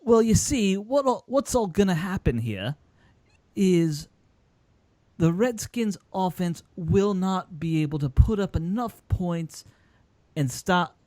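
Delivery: slow, hammed-up British accent, pitched high. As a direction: put on a British pundit's voice, slowly. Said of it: "I can do a British accent".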